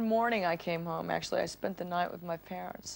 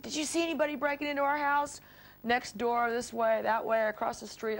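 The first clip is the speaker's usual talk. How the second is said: quick, higher-pitched frantic questioning; retold hysterical; 4 semitones higher than usual. Asking the neighbors about a break-in, mildly hysterical. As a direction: fire off urgent questions, pitch raised. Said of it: "So I was hysterical".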